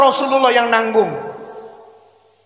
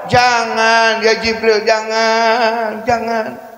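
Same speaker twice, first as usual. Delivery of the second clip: gentle refusal, fading; 3 semitones lower, much slower than usual. Acted.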